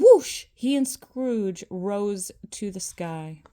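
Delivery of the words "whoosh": dramatic whoosh. A narrator's reading. Narrator sound effect whoosh.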